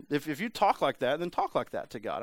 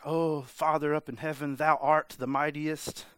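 mock old-English prayer, slowing on the last phrase; imitating formal prayer. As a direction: parody a King James style prayer. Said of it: "conditioned to be like".

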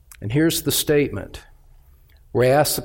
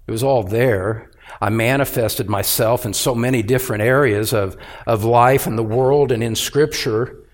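lower, restrained voice of God questioning someone; lightly voiced divine rebuke, pitched down; God's reproach; 5 semitones lower than usual. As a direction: voice God calmly calling someone to account. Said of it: "God would be well within his rights to say".

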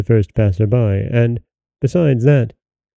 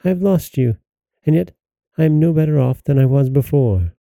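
grieving lament; 4 semitones higher than usual. Acted. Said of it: "cried the princess".

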